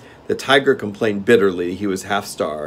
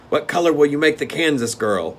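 steward; 7 semitones higher, 5 dB louder than usual. Acted. Steward asks.

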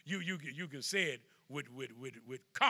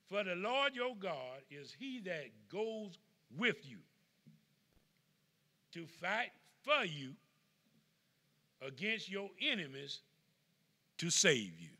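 slow scripture reading; slower than usual. Acted. Scripture read slowly.

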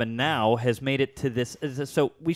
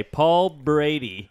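slow, drawn-out host introduction; announcer intro; 3 dB louder, much slower than usual. Acted. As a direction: draw out the name like a show host.

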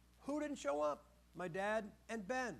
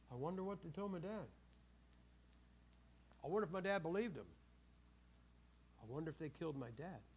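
quiet inner worry; 4 semitones lower, 6 dB quieter than usual. Acted. Joseph's worried inner thoughts.

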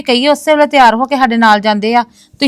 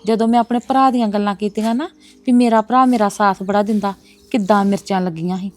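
muttered aside; 6 dB quieter than usual. Acted. Muttering alone after guest leaves.

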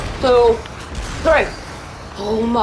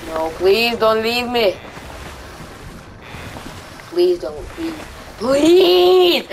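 pleading; 3 semitones lower than usual. Real, not acted. Begging teammate not to leave.

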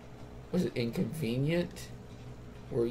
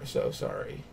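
whispered sorry; 4 dB quieter than usual. Acted. Trails off into a whisper.

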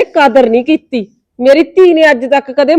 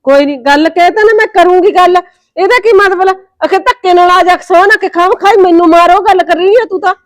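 raised voice; 4 semitones higher than usual. Real, not acted. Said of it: "ਹੌਲੀ ਬੋਲ".

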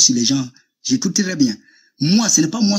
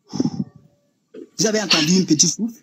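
petit souffle; 2 semitones higher, slower than usual. Shown as a demonstration. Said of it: "Est-ce que vous avez entendu le petit truc que j'ai fait?".

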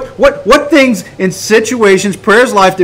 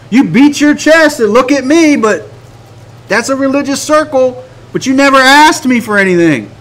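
high-pitched, incredulous voice of God; God's exasperated reply; 5 semitones higher than usual. Acted. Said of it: "He's going".

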